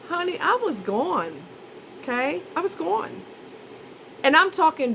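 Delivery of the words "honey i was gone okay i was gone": insisting you were out of it; sassy defense. Retold or imitated. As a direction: drag it out, exasperated. Defending being drugged.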